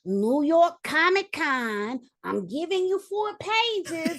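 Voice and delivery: slow, savoured words rising high; drawn-out excitement. Retold or imitated. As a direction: relish every word, stretched out and thrilled. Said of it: "the fucking excitement".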